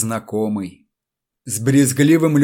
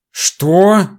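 yelled; 6 semitones higher, 5 dB louder than usual. A narrator's reading. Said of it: "заорал электрик".

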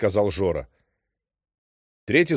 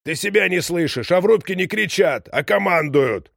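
scolding; 8 semitones higher, 3 dB louder than usual. A narrator's reading. Old man scolding the shouting captain.

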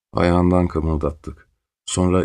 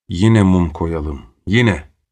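louder, pressing shout with a hard final yine; shouting demand; 5 dB louder, much slower than usual. Acted. Captors shouting to light the candle again, loud. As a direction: urge them on, almost yelling. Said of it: "diye bağırdılar ötekiler".

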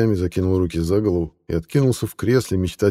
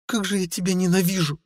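angry growl; 13 semitones higher than usual. A narrator's reading. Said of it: "рыкнула Стелла".

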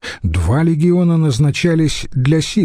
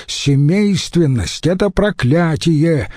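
calling out; 5 semitones higher than usual. Acted. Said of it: "выкрикнул кто-то сзади".

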